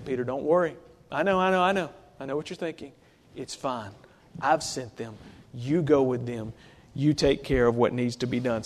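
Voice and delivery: calm him down kindly; gentle reassurance. Retold or imitated. Spirit reassures Peter, paraphrase.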